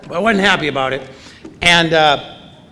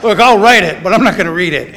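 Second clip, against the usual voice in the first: a light, louder mock old-timer; Bill Wilson; 6 dB louder than usual. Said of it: "this is my Bill Wilson impression".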